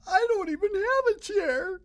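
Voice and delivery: put-on high, loud child's shout; little boy shouting about his missing chair. A narrator's reading. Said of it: "shouted Little Chon".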